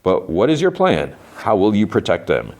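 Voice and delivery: a hint of someone questioning a plan; Robert House. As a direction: deliver as a mildly acted quote, pitch lifting. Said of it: "Robert House's voice is like".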